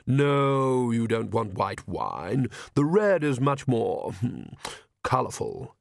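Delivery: a slow, lingering man's character voice; a hint of a leisurely charmer, taking his time; lightly voiced suave gentleman. Vlad choosing a girl's drink, lightly suave and slow.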